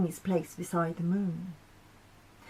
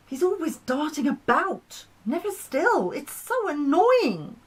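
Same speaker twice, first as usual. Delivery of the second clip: sulky whine, climbing higher; pouting moon; 5 semitones higher than usual. Acted. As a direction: pout and whine about it. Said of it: "The moon pouted".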